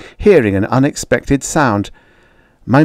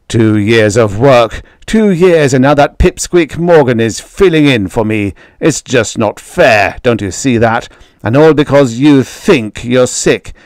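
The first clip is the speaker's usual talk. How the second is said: angry father; 2 semitones higher, 3 dB louder than usual. Acted.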